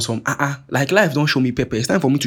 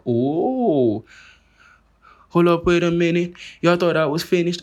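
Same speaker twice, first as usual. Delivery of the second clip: higher, hammed-up gloating comeback; mock rapper bravado, pitched up; cocky comeback boast; 6 semitones higher, slower than usual. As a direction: crow like a rapper who's back from the dead. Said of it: "On some McMill shit".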